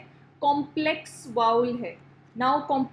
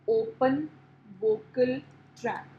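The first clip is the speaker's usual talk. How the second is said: slow, word by word; 2 semitones lower, much slower than usual. Shown as a demonstration. Teacher dictating open vocal tract to students, slow and separated. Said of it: "I'll write for you here".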